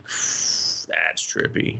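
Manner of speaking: very slow, whispered stoner; mock stoner voice. Friend mocking the stoner boyfriend, very slow and whispered. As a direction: drag it out slowly, whispered.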